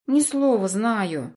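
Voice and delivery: put-on slow high pouty boy; sulky kid drawl. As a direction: promise it grudgingly, sulking. Kid sulkily promises.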